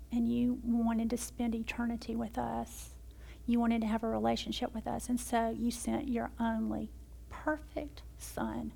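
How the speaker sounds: earnest prayer, dipping to hushed whispers; closing prayer. Acted.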